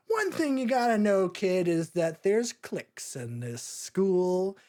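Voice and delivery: mildly put-on worldly classmate voice; streetwise older kid. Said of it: "and he's like".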